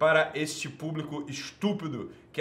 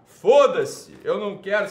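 loud, higher burst of contempt; angry outburst; 4 semitones higher, 10 dB louder than usual. Real, not acted. Host snapping at YouTube viewers, furious shout. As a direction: blurt it out furious.

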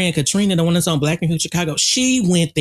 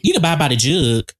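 country accent. Real, not acted. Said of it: "Child, you is so country".

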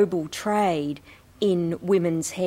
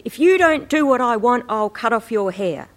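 threatening; 5 semitones higher, 6 dB louder than usual. Acted. Quoting a threatening title.

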